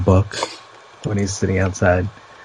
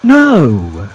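high British-sounding exclamation with a drawn-out no; accidental British accent; 8 semitones higher, 4 dB louder, much slower than usual. Real, not acted. Co-host announcing more comments, in an accidental British accent. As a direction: slip into a British accent, pitched up. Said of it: "was that your attempt at a, at a British accent".

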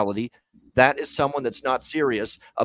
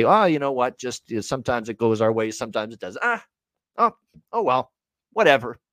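mocking shrug. Mocking a careless team.

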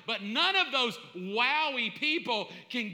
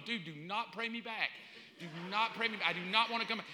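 hushed plea; 2 semitones lower, 6 dB quieter, faster than usual. Acted. Dead man pleads with mourners.

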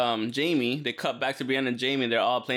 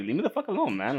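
pissed off; 3 semitones higher than usual. Retold or imitated. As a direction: act out an irritated man brushing people off. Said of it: "He was so pissed off".

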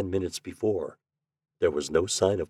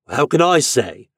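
savage; 5 semitones higher, 6 dB louder than usual. A narrator's reading. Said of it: "he answered savagely".

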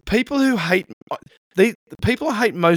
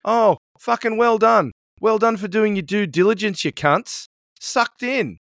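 sarcastic; 5 semitones higher than usual. Real, not acted. Sarcastic rant at neighbours.

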